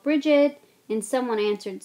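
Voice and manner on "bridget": loud call down a corridor. A narrator's reading. Voice in the corridor calling for Bridget, loud. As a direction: shout the name across the noise. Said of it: "A voice called".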